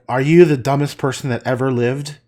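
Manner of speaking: loud, playful insult; mock insult. Insulting a best friend over fish and chips, mock scorn. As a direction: pretend outrage at a best friend. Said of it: "we just say an insult".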